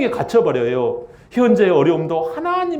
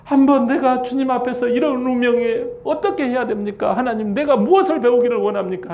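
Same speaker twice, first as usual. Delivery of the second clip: higher, pleading prayer voice; earnest prayer; 5 semitones higher than usual. Retold or imitated. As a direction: Jacob asking God what to do. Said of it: "그래가지고". (높은 목소리로 간청하는 기도)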